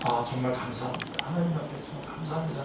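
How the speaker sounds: softly voiced, sincere gratitude; heartfelt thanks. Preacher voicing scolded members thanking God, softly and sincerely. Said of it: "하면서 진짜 진심으로, 쇼로 그러는 거 말고".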